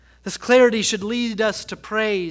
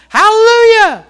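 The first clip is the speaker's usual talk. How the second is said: loud, high shout of praise; calling out in worship; 12 semitones higher, 12 dB louder than usual. Retold or imitated. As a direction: shout it like a worshipper who can't help herself. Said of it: "She would just call out".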